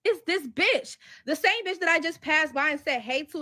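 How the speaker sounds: high, loud outraged gossip; like you just caught her red-handed; shocked disbelief. Retold or imitated. Spotting the other woman, outraged.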